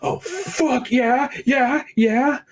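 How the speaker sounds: high, hammed-up moaning yeahs; mock seductive princess. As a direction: tease him like a flirting princess.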